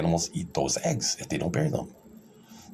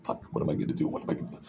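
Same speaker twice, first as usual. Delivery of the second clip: sarcastic panic; 4 semitones lower, 4 dB quieter than usual. Retold or imitated. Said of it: "I'm being sarcastic here".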